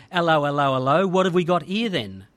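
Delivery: a hint of an old-fashioned copper sizing someone up; British bobby. Religious police checking John out, mock British bobby. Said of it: "basically the religious police".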